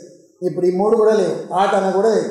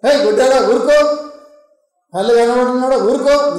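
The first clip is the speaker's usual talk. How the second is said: scolding hush; 2 semitones higher than usual. Retold or imitated. Bystanders silence the shouting blind man, scolding. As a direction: shut him up with short scolding bursts.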